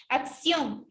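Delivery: acción in two parts, weight on CIÓN; stress on final O. Shown as a demonstration. Teacher repeating acción to locate the stress, weight on the final O. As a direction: sound out acción, leaning on its O. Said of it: "está en la O, la mayor fuerza de voz".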